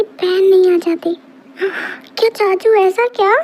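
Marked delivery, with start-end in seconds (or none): 2.2-3.3 shocked question. Acted. Child shocked by the secret.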